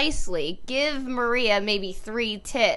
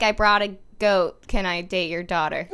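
mock Spanish accent; 6 semitones lower than usual. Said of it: "Just everything should be like".

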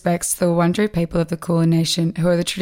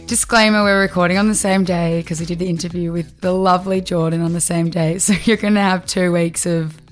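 hoarse, nasal sore-throat voice; talking through a sore throat and blocked nose. Real, not acted. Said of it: "Sore throat and nasally voice".

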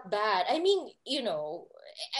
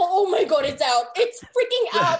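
retold panic; 2 semitones higher, 6 dB louder than usual. Retelling her horrified discovery on stage.

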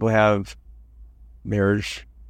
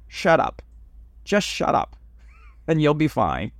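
put-on old man's punchline; 6 semitones higher than usual. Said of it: "He goes".

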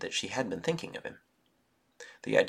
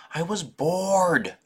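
put-on slow, drawn-out whiny little boy, louder; 10 semitones higher, 9 dB louder, much slower than usual.

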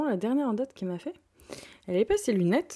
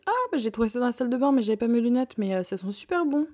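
lightly voiced mother, higher, fast; quick, carefree mother, a touch higher; mother's voice; 4 semitones higher, 4 dB louder than usual. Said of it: "Elle me dit". (voix de maman légèrement imitée, plus aiguë)

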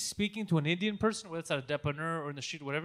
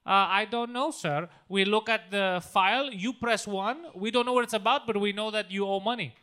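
put-on Indian accent; 3 dB louder than usual. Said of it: "phone calls from Indian people".

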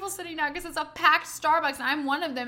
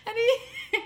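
ordinary talk

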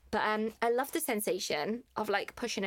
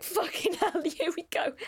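mock hyped; 7 semitones higher than usual.

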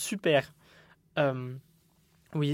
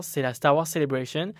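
put-on English accent; 4 dB louder than usual. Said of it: "Pourquoi je prends un accent anglais?".

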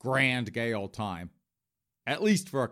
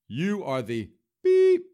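higher, louder, slow accusing shout; angry outburst; 7 semitones higher, 7 dB louder, slower than usual. Pretend. Ronan confronting the podcaster at the bar, indignant slow shout. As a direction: bark it at him like an outraged guest. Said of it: "He'll be like".

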